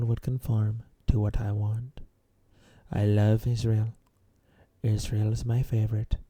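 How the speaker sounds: lightly put-on eloquent rich-boy accent; mock fancy political boasting, lightly imitated; Donald Trump. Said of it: "I'm just gonna sound like him".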